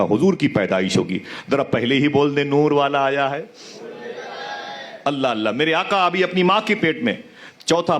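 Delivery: storytelling preacher, voice rising and falling with emotion; impassioned sermon. Acted. Preacher to the gathered congregation, impassioned storytelling. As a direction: tell it to move the congregation to tears.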